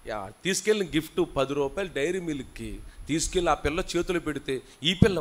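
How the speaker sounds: ordinary delivery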